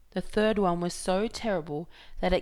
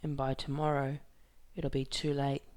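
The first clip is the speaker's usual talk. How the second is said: sadly; 3 semitones lower than usual. Acted. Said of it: "said Hideaway sadly".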